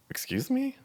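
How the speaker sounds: indignant disbelief. Retold or imitated. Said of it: "Well, I'm shaking".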